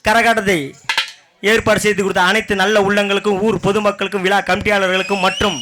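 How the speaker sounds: quick folk troupe compere; fast stage announcer. Acted. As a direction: rattle off thanks quickly. Stage thanks speech, fast.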